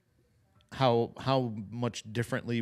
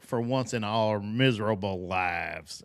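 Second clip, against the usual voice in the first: mock congressman drawl; 3 semitones lower, slower than usual. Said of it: "he's like".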